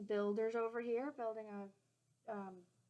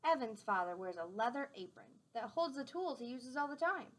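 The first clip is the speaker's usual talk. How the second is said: gentle storybook read-aloud; clear, friendly storytime voice; reading to children; 4 dB louder than usual. A narrator's reading. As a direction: read it out to the class like a picture book. Reading a picture book aloud.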